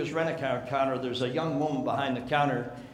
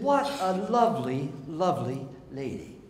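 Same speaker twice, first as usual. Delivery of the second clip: gushing clerk. Retold or imitated. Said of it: "young woman have a nice attitude?".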